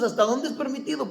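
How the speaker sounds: quick amused echo of someone's question; amused mock question. Preacher teasing those who ask what is permitted, amused. Chuckling, mimics people's question.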